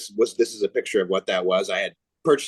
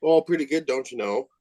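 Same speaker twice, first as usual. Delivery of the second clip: put-on Minnesota accent; 3 semitones higher than usual. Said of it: "make fun of the Minnesota accent".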